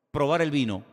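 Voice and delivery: laughing. Real, not acted. Rit en racontant le métier.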